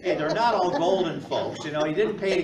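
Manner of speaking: laughing it off with the crowd; chuckling through the line; real laugh while joking with the congregation. Real, not acted. Laughs at own joke.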